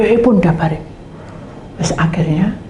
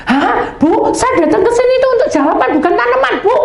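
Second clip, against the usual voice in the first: much higher, mock indignant snap; retold snap. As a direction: bark it back, half play-acted. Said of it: "Bentak gitu saya".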